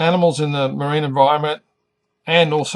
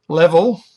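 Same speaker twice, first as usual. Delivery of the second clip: Level with LEV punched louder; stress on first syllable; 3 semitones higher, 7 dB louder than usual. Shown as a demonstration. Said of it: "the first syllable is emphasized".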